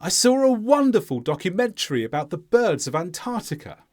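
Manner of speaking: falling statement, beats on "wonderful" and "Antarctica"; stressed content words. Shown as a demonstration. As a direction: model for repeating, weight on "wonderful" and "birds". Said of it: "Listen, then repeat".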